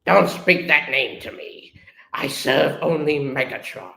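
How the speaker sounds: lightly growled villain warning; Starscream growl. Acted. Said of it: "Then Starscream growls".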